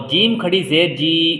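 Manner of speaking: slow spelling, long ee on جی; drawn-out vowel. Shown as a demonstration. Teacher showing learners khari zer, final جی drawn out. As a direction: hold the final جی. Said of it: "اس کو بھی کھینچ کے پڑھیں گے".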